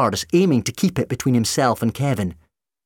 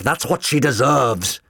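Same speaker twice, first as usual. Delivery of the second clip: slow, vindictive raised retort; shouting back; 4 semitones higher, 4 dB louder, slower than usual. A narrator's reading. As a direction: stretch it out with harsh conviction. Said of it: "McCavity shouted back".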